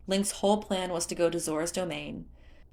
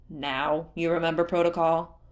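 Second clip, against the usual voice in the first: demanding; 4 dB louder than usual. Acted. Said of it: "Leto demanded".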